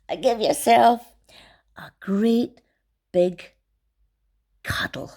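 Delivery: hushed goodnight cuddle; whisper. Real, not acted. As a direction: whisper it tenderly. Bedtime cuddle to children.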